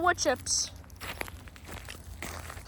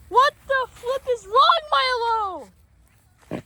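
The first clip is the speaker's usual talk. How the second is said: puzzled; 7 semitones higher, 3 dB louder, slower than usual. Real, not acted. Puzzled by dog's behavior.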